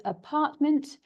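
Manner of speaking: English "apartment", three beats peaking on PART; stress on second syllable. Shown as a demonstration. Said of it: "so where the voice goes up".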